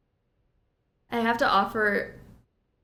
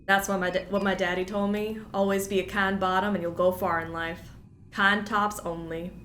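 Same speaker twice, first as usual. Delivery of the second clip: lightly done Southern twang, stuffed up; put-on Southern accent. Streamer chatting over the game, put-on Southern accent. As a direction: hold a put-on Southern accent through a head cold. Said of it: "this accent".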